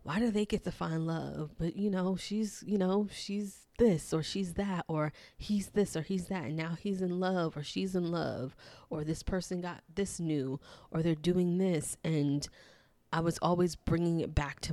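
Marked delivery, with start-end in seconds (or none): 0.0-12.0 a mild hint of a petulant whine about others' luck; whiny inner voice. Her subconscious voice complaining about friends' luck, mildly whiny. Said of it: "my subconscious whiny voice would be like".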